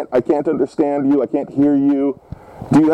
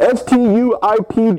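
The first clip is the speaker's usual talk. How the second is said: indignant letter-by-letter spelling; pointed spelling; 3 semitones higher than usual. Pretend. Old man spells the insult for caller, indignant.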